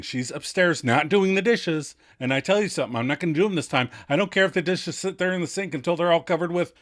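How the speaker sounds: loud, rising fed-up rant; hammed-up annoyed tirade; exasperated rant. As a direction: vent about the dishes, fast at the end. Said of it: "Monica uggs before stating".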